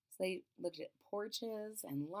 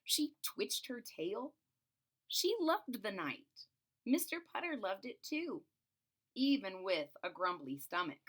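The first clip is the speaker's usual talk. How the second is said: put-on reading to children. A narrator's reading. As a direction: read it like a bedtime story. Reading picture book aloud.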